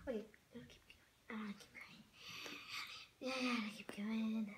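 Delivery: hushed, unvoiced self-coaxing; whispering to herself. Real, not acted. Vlogger urging herself on with the unboxing, whispering. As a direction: whisper it quickly under your breath.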